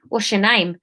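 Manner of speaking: lightly done South London question; South London accent. Acted. Leader asking Marine, light South London accent. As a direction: retake it with a hint of South London. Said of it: "no, South London".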